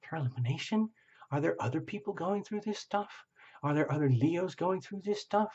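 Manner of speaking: a client showing off while apologizing; sheepish client. Retold or imitated. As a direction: gush and then boast, a bit embarrassed. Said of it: "apologizing, saying, like".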